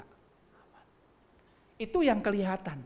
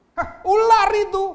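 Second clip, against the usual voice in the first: high, loud, slow accusation; Eve blaming; 15 dB louder, slower than usual. Acted. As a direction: fling the blame at the snake. Eve blames the serpent.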